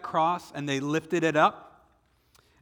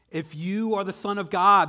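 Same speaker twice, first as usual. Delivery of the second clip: jeering passerby; 6 semitones higher, 7 dB louder than usual. Acted. Passersby deride Jesus on cross.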